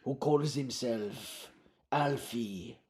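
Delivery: put-on accented, measured mysterious foreigner; Romando. Romando seeks Alfie, put-on accented character voice. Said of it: "I've chosen to go low".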